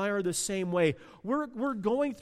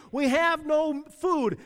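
mock grumble; 7 semitones higher, 3 dB louder than usual. Israel grumbling.

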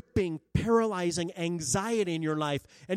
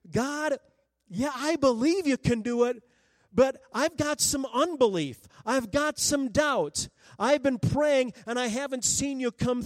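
doubting prayer; 4 semitones higher than usual. Retold or imitated. Voices a doubting believer's prayer.

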